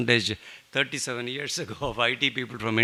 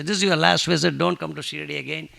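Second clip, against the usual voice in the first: firm command; 4 semitones higher, 6 dB louder than usual. Retold or imitated. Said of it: "putting my right foot down".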